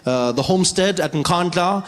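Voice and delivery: a hint of a polished South African Model C accent; mock Maimane's polished Model C English accent; lightly done Model C English accent. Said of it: "Model C English accent".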